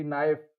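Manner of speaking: नाइफ begun on N, no K sound; silent K. Shown as a demonstration. Teacher reading out a spelled example, silent K, नाइफ starting on N. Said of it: "के silent हो गया है".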